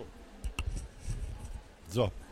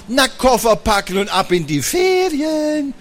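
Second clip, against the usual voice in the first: imitating mom; 6 semitones higher than usual. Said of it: "Tonfall von Mama angenommen".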